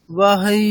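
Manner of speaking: বাহাই with a tiny break before the last ই; বাহাই said with a slight stop and a jolt on the last vowel; pause before final i. Shown as a demonstration. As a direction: say বাহাই, then a small push on ই. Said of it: "কিরকম হচ্ছে?".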